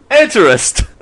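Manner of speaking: loud playful announce; playful exclaim. Pretend. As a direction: cry it out like a product name. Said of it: "That sounds like a drug".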